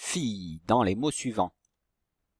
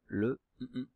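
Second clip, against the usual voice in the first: hummed blank; 7 dB quieter than usual. Shown as a demonstration. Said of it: "au début du mot fenouil".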